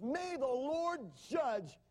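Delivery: high, very slow, drawn-out condemnation; angry men cursing their leader; bitter curse. A narrator's reading. Angry foremen curse Moses.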